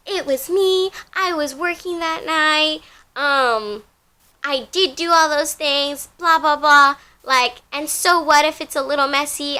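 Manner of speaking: mocking coworker. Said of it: "and he's like".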